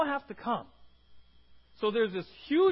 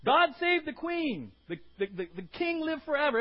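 loud, higher acclamation; hailing a king; 5 semitones higher, 6 dB louder than usual. Retold or imitated. Preacher showing a hail to royalty, loud acclaim. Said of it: "more like".

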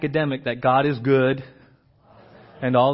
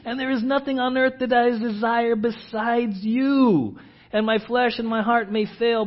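lifted, earnest psalm reading; scripture reading; 3 semitones higher than usual. Acted. Pastor reading Asaph's psalm to the church, lifted and earnest. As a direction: read the psalm as heartfelt worship.

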